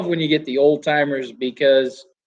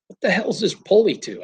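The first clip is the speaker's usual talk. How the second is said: higher-pitched baffled question; retold bafflement; 5 semitones higher than usual. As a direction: imitate someone puzzled, pitched up.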